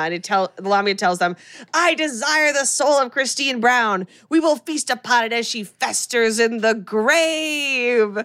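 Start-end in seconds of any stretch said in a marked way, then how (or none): 1.7-8.2 lightly voiced demon, drawn out; mock demon proclamation, slightly raised pitch. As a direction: stretch it out like a hammy demon. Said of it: "her voice has become a demon voice".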